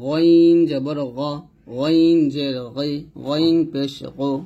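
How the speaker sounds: slow recitation with a thick throat sound on গইন; every syllable of গইন drawn out, its consonant thick; thick ghain drill. Shown as a demonstration. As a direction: chant out গইন slowly, heavy at the back of the throat. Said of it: "মোটা করে উচ্চারণ করতে হবে".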